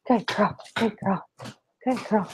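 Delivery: hushed praise for the dog after her paw print; whispered praise. Real, not acted.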